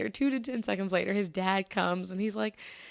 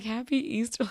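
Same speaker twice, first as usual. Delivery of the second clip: higher, puzzled repeat; baffled echo; 4 semitones higher than usual. Retold or imitated. Shopper reacting to the odd greeting, baffled. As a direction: echo it in mild disbelief.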